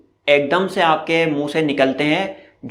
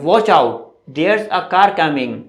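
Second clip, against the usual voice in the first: warning call; much slower than usual. Shown as a demonstration. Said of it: "हम अचानक बोलते हैं".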